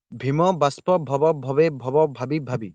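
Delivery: slow, evenly sounded ଭବ ଭବେ ଭବ; slow pronunciation demo. Shown as a demonstration. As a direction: recite ଭାବି ଭାବି slowly, word by word. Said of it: "ତମେ ଉଚ୍ଚାରଣ ନିଜେ କର". (ଧୀରେ ଶବ୍ଦ ଶବ୍ଦ କରି ଉଚ୍ଚାରଣ)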